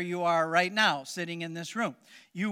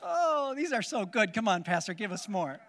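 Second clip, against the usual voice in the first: mock congregation praise; 3 semitones higher than usual. Pastor mocks congregation's praise.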